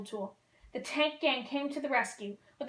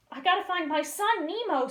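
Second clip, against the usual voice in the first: scream; 6 semitones higher, 3 dB louder than usual. Acted. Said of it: "screamed Marlin".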